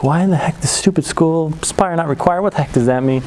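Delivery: mild mock grumbling; a touch of indignant kid; getting mad. Kid stewing about school on the car ride over, mildly mad. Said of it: "I'm getting mad again".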